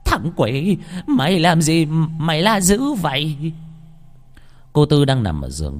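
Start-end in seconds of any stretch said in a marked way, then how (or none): 0.1-3.5 put-on high-pitched cranky old woman's yell; yelling scold. Grandmother startled by her grandson, high scolding yell. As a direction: scold the boy in a raised, high voice. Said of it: "rồi la lên".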